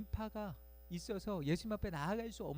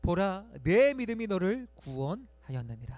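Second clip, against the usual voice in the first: solemn proclamation; 7 dB louder than usual. Pretend. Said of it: "사십삼 절 상반절을 보면".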